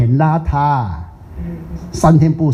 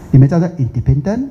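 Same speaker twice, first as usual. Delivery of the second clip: independent with a hard "t" in the local Singapore way; mock local independent, a bit odd-sounding; mimicking local accent. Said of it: "你们这样念的嘛".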